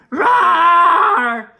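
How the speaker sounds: high, loud terrified shriek. Acted. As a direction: scream at the monster. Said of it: "Pencil shrieked".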